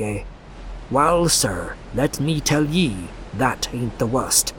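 put-on wild old drunkard ranting; old sailor voice. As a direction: rant like a half-mad old fisherman.

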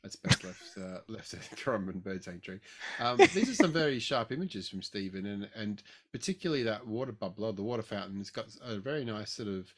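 distant, off-mic voice; speaking away from the microphone; far from mic. Real, not acted. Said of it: "Can you come closer to the mic".

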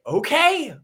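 high, loud, fed-up outburst; mock exasperation. Fed-up Noah to the unicorns, exasperated.

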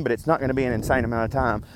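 talking while short of breath; breathless, gulping air between phrases. Real, not acted. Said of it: "Sorry, I'm out of breath".

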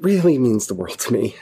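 real lump in the throat, words catching; fighting back tears mid-sentence; choked up. Real, not acted. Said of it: "Sorry, I got a little choked up there".

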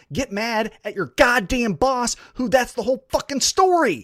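heated rant, rising in pitch; angry rant. Real, not acted. Fan berating wrestlers about their boss, angry rant. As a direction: build real indignation toward the key point.

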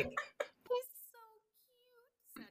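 high, slow, sing-song greeting; sweet children's voices. Acted. The whole class greets the new guinea pig, high and sweet. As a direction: chirp it like a cheery little kid. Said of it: "and all the little children".

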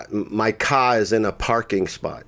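imitated botched Boston accent; bad actor's Boston accent, dropping R unevenly. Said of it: "people do a Boston accent".

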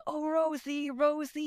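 forced enthusiasm. Retold or imitated. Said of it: "really be like".

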